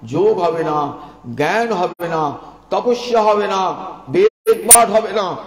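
rising preaching fervour ending in a shout; building preacher's cry. Acted. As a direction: hammer each "হবে না" harder until you cry out.

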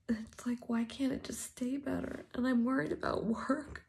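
fighting back tears while venting; real crying. Real, not acted. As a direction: voice breaking high, fading to a teary whisper. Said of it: "I just needed to cry to somebody".

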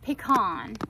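pecan as "PEE-kahn", stress on the first syllable; her old pecan. Shown as a demonstration. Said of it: "I used to say".

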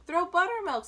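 put-on loud, high boyish suggestion; calling out. A narrator's reading. Boy calls out a suggestion.

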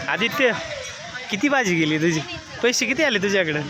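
loud, high call across the market. Real, not acted. Father calling his son Aditya at the busy market.

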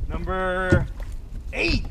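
高声拔起“eight”，一锤定音; triumphant count. Real, not acted. Landing another fish.

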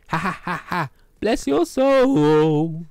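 high mocking cackle then slow blessing; hammed-up high laugh.

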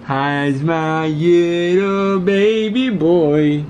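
slow, loud cooing greeting. Real, not acted. Talking to baby.

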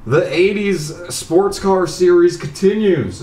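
high, loud, startled cry of dismay; excited dismay. Real, not acted. Dismayed at more races ahead.

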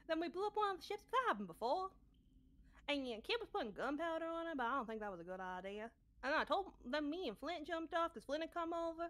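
lightly put-on character voice recapping the adventure. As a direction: recount the quest in character, lilting. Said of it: "easier if I was talking like me".

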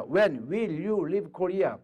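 very slow English question; slow demo. Shown as a demonstration. Teacher modelling a question to an American, slow. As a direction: draw the words out for learners. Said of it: "미국 사람이 있어요".

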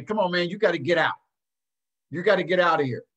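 fast, pushy "you gotta get out"; harsh way. Shown as a demonstration. Coach showing the wrong way to eject a parent, fast and pushy. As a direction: shove him out with the words. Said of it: "it's how you say it to people".

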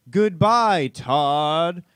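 high, loud alien ride voice. Retold or imitated. Ride's E.T. saying goodbye to dad, high alien voice. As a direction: squeal it like a cheesy alien robot. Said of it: "and E T goes".

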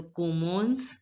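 commence as "ko-mons"; commence, slow and rising, "ko-mons". Shown as a demonstration. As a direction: slowly say commence with "on" in the second syllable. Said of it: "E N is pronounced as on in French".

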